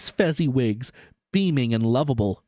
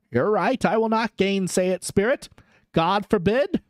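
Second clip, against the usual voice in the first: put-on higher, wistful old miser; old Scrooge voice; 4 semitones higher than usual. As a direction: answer like a sad old man. Scrooge speaks.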